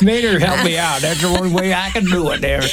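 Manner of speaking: put-on hick Southern accent; lightly hammed-up country yokel; Larry the Cable Guy. Shown as a demonstration. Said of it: "I think of Larry the Cable Guy".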